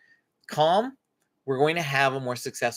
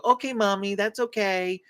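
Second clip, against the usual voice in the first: mock happy child, slightly higher; fake cheerful; 5 semitones higher than usual. Shown as a demonstration. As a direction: paste on a brave smile while saying it. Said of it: "put a happy smile on and walk away and go".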